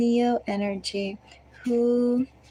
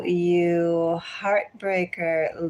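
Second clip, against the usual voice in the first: tongue in cheek; much slower than usual. Pretend. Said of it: "I say that tongue in cheek".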